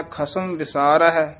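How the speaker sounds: slow, even ਖਸਮ ਵਿਸਾਰ ਹੈ; slow teaching recitation; slow careful reading. Shown as a demonstration. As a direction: read it slowly for learners. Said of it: "ਇਸੇ ਤਰ੍ਹਾਂ ਸ਼ੁੱਧ ਉਚਾਰਨ".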